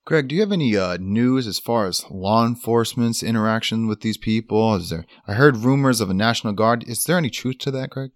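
anchor pressing for news, brisk. Acted. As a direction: ask it like a live anchor. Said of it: "full news anchor voice".

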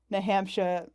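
New England accent, Hampshire said as Hampsha; New England accent, r dropped in Hampshire. Shown as a demonstration. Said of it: "with a, like, a stupid New England accent".

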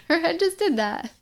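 high, laughing disbelief; mock disbelief. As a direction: echo it with amused shock. Laughing echo of the joke.

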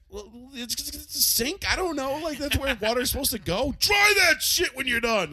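high, mocking voice ending in a shout; mocking dad. Kid mocking dad about drying the sink. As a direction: ham up the father's logic. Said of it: "And you're like".

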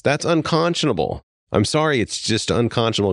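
father outraged at doctors who let his starving wife leave, getting worked up; worked-up outrage. Real, not acted. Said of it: "It gets me worked up".

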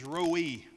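roi said slowly as one syllable, like the English "roy"; Hebrew word. Shown as a demonstration. Pastor teaching the Hebrew word, saying roi slowly. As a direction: say roi like "roy", slow and clear. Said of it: "it's pronounced roi".

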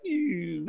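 small mock shrinking squeal; cartoon shrinking noise. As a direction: shrink away with a little cartoon "ew". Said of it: "started to shrink like in a cartoon".

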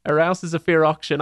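imitation South Yorkshire with dropped H; attempted Yorkshire accent. Repeating the dialect joke for listeners, attempted Yorkshire accent. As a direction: have a go at Yorkshire dialect, imperfectly. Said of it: "I can't do the accent".

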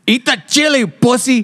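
high taunting jeer; mock bully relative. Relative taunting little kid, high jeer. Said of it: "And I go".

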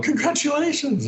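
high, gushing congratulations; excited congratulations. Retold or imitated. Agent ringing the actor, excitedly high. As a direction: sing it out down the phone. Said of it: "this time she's going".

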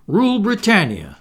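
put-on loud, high boyish squeak. A narrator's reading. Boy defying the pirates, squeaking loudly. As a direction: squeak it out patriotically. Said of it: "squeaked Curly".

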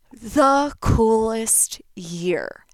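"the coolest year" whispered very slowly; breathy awe. Real, not acted. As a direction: hush it out in awe, very slow. Dreamy peak of story.

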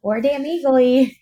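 high, slow hammed-up sports chant; mock fan cheer. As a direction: ham up a goofy team cheer.

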